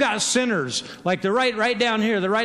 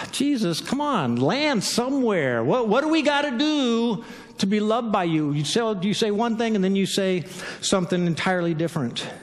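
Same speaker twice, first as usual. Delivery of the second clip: exasperated plea. Acted. Acted exasperated plea to Jesus.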